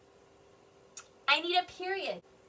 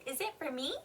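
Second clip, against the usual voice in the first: softer question, rising on "me"; question intonation; 8 dB quieter than usual. Shown as a demonstration. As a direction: show you're asking by lifting "me". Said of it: "My voice goes higher at the end".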